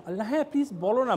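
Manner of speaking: quick, put-on polite coaxing; mock-keen party guest; feigned eagerness. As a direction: coax sweetly as a guest who is only pretending. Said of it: "একটু একটু ভনিতা করছে".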